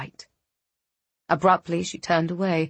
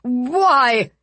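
high frightened plea; panicked; 5 semitones higher, 3 dB louder than usual. Acted. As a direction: gasp it out in panic. Hanged lord pleading.

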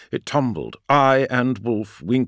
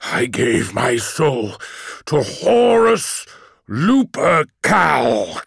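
solemn; 3 semitones higher, much slower than usual. Acted. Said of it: "he said".

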